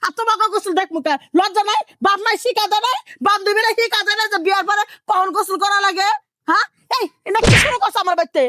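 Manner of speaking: outraged mother-in-law ranting; angry yelling. Acted. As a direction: fire indignant questions at the daughter-in-law. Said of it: "এখন আপনি যেভাবে চিল্লাচিল্লি শুরু করছেন".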